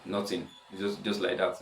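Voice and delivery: quiet, hesitant brush-off; sheepish reply. Retold or imitated. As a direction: softly play it down after a pause. Sheepish answer to girl's question.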